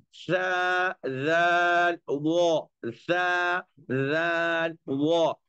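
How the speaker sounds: सा राल वो from the edge of the front teeth; letter sounds demo. Shown as a demonstration. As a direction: say सा राल वो carefully. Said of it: "सनाया उलिया का किनारा". (सा, राल, वो उच्चारण)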